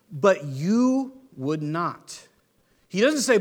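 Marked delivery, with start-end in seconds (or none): 0.1-2.3 slow lament. Retold or imitated. Jesus lamenting over Jerusalem.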